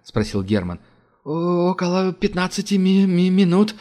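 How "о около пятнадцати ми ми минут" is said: high, stammering scared reply; fearful stutter. A narrator's reading. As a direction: stutter out of fear. Technician stammers in fear.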